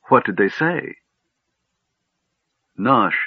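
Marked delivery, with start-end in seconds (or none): 0.1-1.0 high, rising curious question; eager. A narrator's reading. Tas questioning the gnome about the words, eagerly. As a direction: press keenly for the answer. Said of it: "Tas interrupted eagerly".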